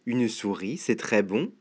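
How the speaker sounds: soft, low snake voice, relishing; low and quiet, eyeing a tasty morsel; sly snake. Acted. Snake to himself on spotting a mouse, low and greedy.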